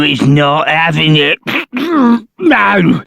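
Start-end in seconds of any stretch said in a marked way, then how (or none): 1.7-3.0 troll's high no. Acted. Troll keeps refusing.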